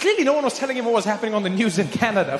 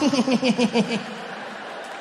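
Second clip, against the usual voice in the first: Bush chuckle. Retold or imitated. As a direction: snicker like Bush. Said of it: "that weird chuckly thing".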